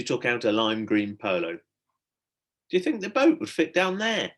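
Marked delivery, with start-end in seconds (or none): 1.6-4.3 higher, slow, oddly voiced question; sudden idea. A narrator's reading. Stella to Tom, staring into the hole, slow wondering. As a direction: float the wild idea slowly. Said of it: "she suddenly said".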